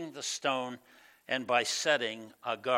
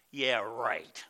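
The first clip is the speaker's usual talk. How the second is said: mocking scoffer; 2 semitones lower than usual. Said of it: "Some said".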